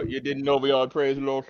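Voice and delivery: mock Jamaican lilt; hammed-up Jamaican accent. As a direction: put on a playful Jamaican accent. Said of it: "with a Jamaican accent".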